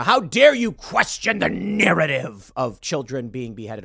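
lightly voiced, slow mock outrage; a hint of self-righteous scolding; mock indignation. Mimicking pro-Israel critics with mild, slow indignation. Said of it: "people who are pro-Israel saying".

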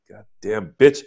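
pained cry; wailing curse. Acted. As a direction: cry out in pain. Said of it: "he wailed".

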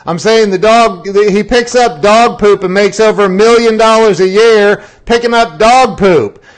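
emphatic lecture. Retold or imitated. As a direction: drive the point home hard. Friend lecturing loudly.

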